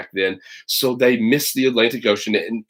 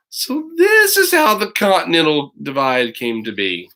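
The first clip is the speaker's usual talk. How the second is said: whisper; 4 semitones higher than usual. Acted. Whispered ending line.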